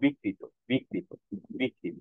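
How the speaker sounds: বিকৃত softly as "bi-krito", no doubling; unforced pronunciation. Shown as a demonstration. Teacher models the ri-kar word, soft unforced pronunciation. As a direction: keep the kr light and single in বিকৃত. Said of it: "এত জোরালো ভাবে উচ্চারণ করব না".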